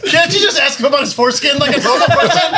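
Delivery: fast, laughing disbelief. Real, not acted. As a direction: blurt it out through laughter. Laughing at the face contest.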